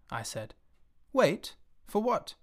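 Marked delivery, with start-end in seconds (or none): 1.1-2.3 put-on puzzled higher child's question; the little prince, baffled by waiting; surprised. Little prince surprised the sunset must wait, high puzzled question. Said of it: "At first you seemed to be very much surprised".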